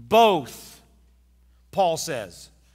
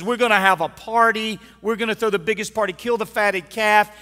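joyful father; 4 semitones higher, 6 dB louder than usual. Acted. Father's joyful party call.

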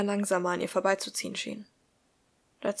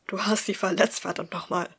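hissed. Acted. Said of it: "fauchte Thaddeus ihm entgegen".

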